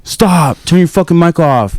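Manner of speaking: exasperated mock order; mock annoyed gamer. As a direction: act out a player begging for silence. Imitates annoyed lobby players.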